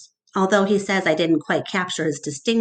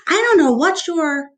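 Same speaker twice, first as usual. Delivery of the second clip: irritated Mac; 9 semitones higher, 5 dB louder than usual. Acted. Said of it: "he starts to say".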